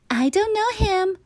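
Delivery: mother covering her shame at a wedding; through a gritted smile. Acted. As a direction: deny him politely while embarrassed. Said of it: "uttered Mother through a gritted smile".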